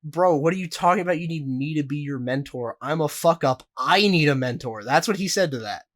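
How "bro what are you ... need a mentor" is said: Logan Paul reply. Retold or imitated. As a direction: toss the request back with a laugh in it. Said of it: "Logan Paul, in response, says".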